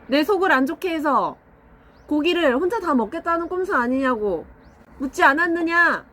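lightly voiced haughty lord, archaic speech; stern lord voice. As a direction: play a pompous old lord scolding a servant. Mock lord scolding servant.

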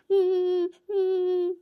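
loud hammed-up whimpers; mock sobbing. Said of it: "ಯಾಕಪ್ಪ ಅಳ್ತಾ ಇದೀಯಾ?".

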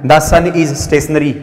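very slow, word by word; slow, careful sentence reading; slow dictation. Shown as a demonstration. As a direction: read it out like dictation for the class. Reads exam sentence aloud slowly.

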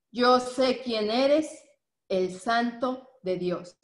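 slow, weighty demon's exclamation, each word drawn out. Acted. Preacher voicing the demon to the Bible class, slow and emphatic. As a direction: give the demon's words a slow, deliberate weight. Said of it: "fíjate cómo le dice, con signos de admiración".

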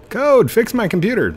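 high, loud pretend complaint; mock demanding caller. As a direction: play a caller demanding tech help. Mock demand before help desk bit.

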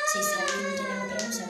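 high, loud, fast squeal. Real, not acted. Girl squealing there is nothing to show.

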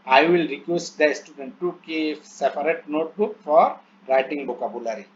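very slow, word-by-word English reading; slow dictation reading. Shown as a demonstration. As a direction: read each English word out slowly as if dictating. Reads English plan aloud slowly. (ধীরে ধীরে শ্রুতলিপির মতো পড়া)

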